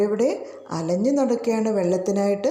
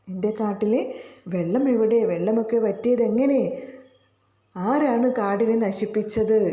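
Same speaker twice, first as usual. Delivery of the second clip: teacher lightly voicing an elephant crying out for water; a storyteller's half-hearted elephant cry; the elephant calls out in a lightly raised voice; mild mock roar. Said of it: "ഉറക്കെ അലറുകയാണ്".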